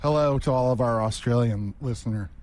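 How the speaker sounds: lightly put-on Aussie greeting; Australian accent. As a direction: attempt an Australian hello. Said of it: "Can you do an Australian accent".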